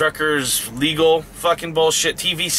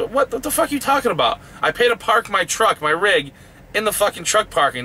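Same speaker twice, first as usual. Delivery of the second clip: retold indignant protest, pitched up; fuming; 5 semitones higher than usual. Driver retelling his argument over paying to park, fuming. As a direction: argue back in higher-pitched disbelief. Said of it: "fuming at this point".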